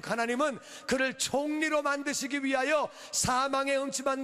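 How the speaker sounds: high-energy sermon delivery; impassioned preaching. Real, not acted. Pastor urging congregation to believe God protects, impassioned preaching. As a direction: preach it out with ringing conviction.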